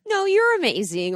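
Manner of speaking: high, quick brush-off of praise; a lightly voiced bashful deflection; deflecting a compliment. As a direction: mimic someone waving a compliment away. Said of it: "bounce it off of you".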